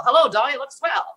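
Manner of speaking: 1930s screen siren, high and quick; femme fatale. Pretend. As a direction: purr it like a 1930s movie vamp. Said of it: "sounded like a femme fatale from the nineteen thirties".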